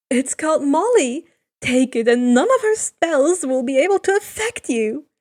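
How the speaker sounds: a sly god's hint; lightly voiced Hermes.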